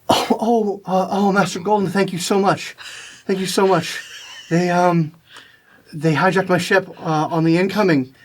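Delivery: a hint of a woman straining to speak; strained through gritted teeth. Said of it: "through gritted teeth, fighting through the acceleration".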